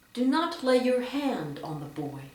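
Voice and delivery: firm proclamation, weight on "hand"; expressive reading that emphasizes the noun "hand"; stress on nouns. Shown as a demonstration. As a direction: lean on "hand" in the command. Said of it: "You can also emphasize nouns".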